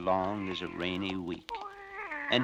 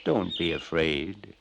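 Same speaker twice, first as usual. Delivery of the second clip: calling out; 2 semitones higher, 9 dB louder, slower than usual. Acted. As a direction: shout after them, then calm them. Bear calls after the girls.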